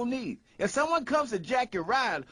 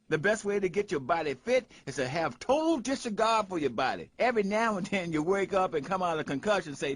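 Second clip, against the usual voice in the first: normal talking voice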